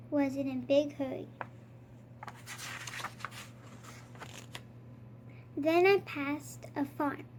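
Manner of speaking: lightly voiced Count reading a counting story; a hint of the vampire Count, savouring each number; storybook Count, counting with relish. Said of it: "I am the Count".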